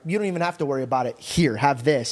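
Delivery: rushed, quick tossed-off parent voice; fast indulgent parent. Retold or imitated. Rich parent brushing off a kid's worries, fast and breezy. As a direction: rattle it off like a rich parent handing things over. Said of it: "rich parents are like".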